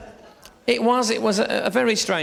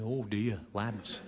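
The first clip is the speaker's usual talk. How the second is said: lightly voiced Jim Bowen; 8 semitones lower, 12 dB quieter, slower than usual. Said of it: "there's Jim Bowen going".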